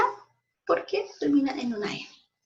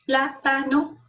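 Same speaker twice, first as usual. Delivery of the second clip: 'Plátano' sounded out as plá-ta-no; testing the stress; 3 dB louder, much slower than usual. Shown as a demonstration. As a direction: sound out 'Plátano' syllable by syllable to find the stressed one. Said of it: "¿Dónde cargo la voz?". ('Plátano' por sílabas, buscando la tónica)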